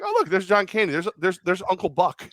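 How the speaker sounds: mildly excited celebrity spotting; lightly voiced cool quarterback; Joe Montana voice. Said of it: "He's like".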